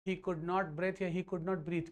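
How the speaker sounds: offers both choices very slowly; slow, deliberate options. Shown as a demonstration. Teacher to class, offering two choices very slowly. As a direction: weigh breath against breathe slowly. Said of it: "क्या बोलोगे?".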